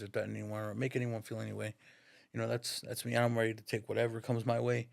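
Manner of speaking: imitating a son's composed apology; manly, steady admission. Son apologizes for what he said, steady and composed. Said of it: "like a fucking man, he said this".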